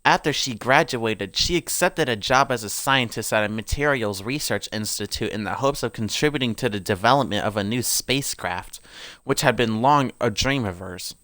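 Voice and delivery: put-on lore read aloud in an amateur British accent.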